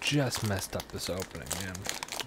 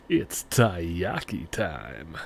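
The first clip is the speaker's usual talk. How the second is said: deep announcer voice; 4 semitones lower, 5 dB louder, much slower than usual. Acted. Hyped announcement.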